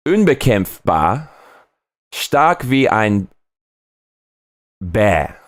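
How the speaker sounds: slow, solemn German proclamation; German motto. Shown as a demonstration. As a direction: declaim the German saying slowly, like a grand motto. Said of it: "I have to say".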